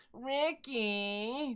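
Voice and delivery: lightly whiny, drawn-out call; Lucille Ball. Retold or imitated. Streamer tests a voice for the game, light whine. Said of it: "like, a whiny voice going on".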